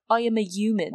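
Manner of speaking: creature mimicking a British accent; rough imitated British accent. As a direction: say it in a badly faked British accent. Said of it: "it imitates a British accent".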